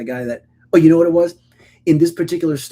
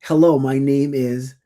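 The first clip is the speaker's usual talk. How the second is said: polite greeting demo; 4 dB louder, slower than usual. Shown as a demonstration. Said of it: "what you say is".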